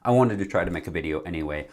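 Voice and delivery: numb face after dental surgery; numb from the dentist. Real, not acted. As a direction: talk through a numb mouth. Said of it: "my face is numb".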